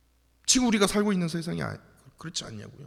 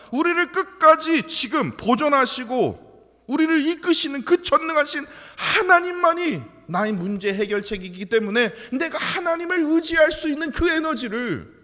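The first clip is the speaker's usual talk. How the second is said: impassioned prayer; 9 semitones higher, 9 dB louder than usual. Acted. Pastor leading a fervent prayer for renewal. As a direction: pour it out to God in fervor.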